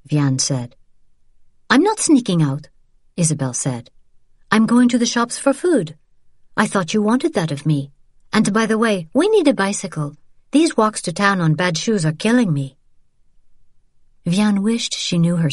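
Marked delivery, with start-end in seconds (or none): 1.7-2.7 a lightly voiced tired sister, higher; tired and frustrated, then sheepishly sorry; young woman, weary. Isabel apologizing to her niece, lightly voiced and weary. 4.5-12.8 a lightly voiced tired sister, higher; tired and frustrated, then sheepishly sorry; young woman, weary. Isabel apologizing to her niece, lightly voiced and weary.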